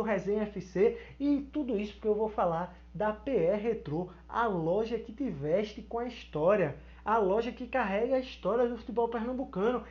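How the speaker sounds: soft, low ad-announcer voice; disguised deep voice. Acted. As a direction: put on a smooth commercial voice. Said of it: "E aí eu já vou mudar a voz".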